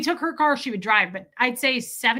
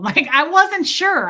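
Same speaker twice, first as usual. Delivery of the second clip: laughing, higher and louder, slow; 7 semitones higher, 8 dB louder, slower than usual. Real, not acted. Admitting the awkward chiropractor visit, laughing. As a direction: let the laugh carry the words up.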